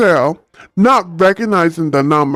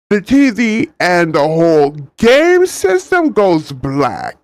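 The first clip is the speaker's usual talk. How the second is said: Spafrican accent. Shown as a demonstration. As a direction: read it in a loose Spanish-African accent. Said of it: "what kind of a-, accent I'm at".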